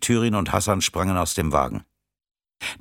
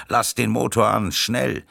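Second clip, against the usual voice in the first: higher, pressing command; urgent order; 4 semitones higher than usual. Acted. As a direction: urge the driver to hurry. Urgent order during the getaway. (drängender, höherer Befehl)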